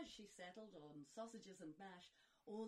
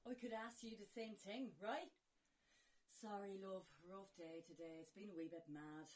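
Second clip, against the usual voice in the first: Snow White voice; 2 semitones higher, 13 dB louder than usual. Acted. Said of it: "In dulcet tones the girl responded".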